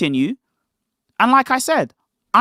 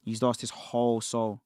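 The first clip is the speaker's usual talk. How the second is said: muttered under the breath, nearly swallowed; low muttering; 12 semitones lower, 13 dB quieter than usual. Real, not acted. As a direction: mumble it to yourself in disbelief. Streamer mutters low throughout.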